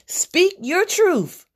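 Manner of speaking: nearly yelling at the viewer to finally open up; exasperated shout. Real, not acted. Exasperated urging.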